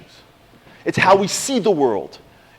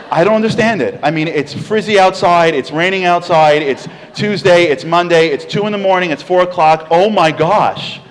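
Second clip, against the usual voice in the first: lightly voiced gushing woman, louder; amazed lady; 4 dB louder than usual. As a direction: gush over the hair like an astonished coworker. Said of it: "She says to me".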